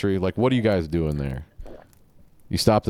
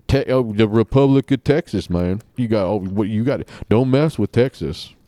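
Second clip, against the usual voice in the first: mock Texan boast; 3 semitones higher, 5 dB louder than usual. Hyping Texas mockingly.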